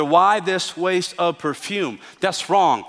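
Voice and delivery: indignant. Acted. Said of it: "with that tone, indignantly".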